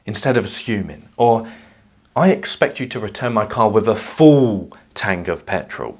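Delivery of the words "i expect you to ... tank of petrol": louder, punching each word with resentment; pointed, annoyed demand; annoyed overemphasis. Shown as a demonstration. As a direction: lean hard on the words, irritated. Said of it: "resonated with a pang of annoyance".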